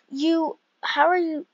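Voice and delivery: imitating mom's British accent. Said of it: "doing a British accent".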